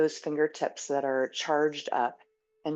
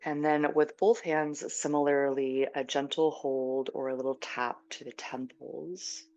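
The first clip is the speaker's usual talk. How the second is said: guided meditation. Real, not acted. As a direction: ease them gently into stillness. Leads a guided self-massage meditation.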